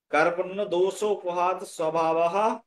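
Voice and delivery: স্বভাবঃ ends on a sounded, rising "-ha"; model recitation. Shown as a demonstration. Teacher modelling the verse line for the student, careful recitation. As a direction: recite কার্পণ্য দোষ উপহাত স্বভাবঃ evenly, echoing the final visarga. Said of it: "এরকম উচ্চারণ হবে".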